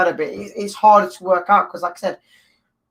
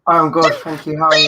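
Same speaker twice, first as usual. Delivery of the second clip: yawning; 2 semitones lower than usual. Real, not acted. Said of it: "you can't come in yawning".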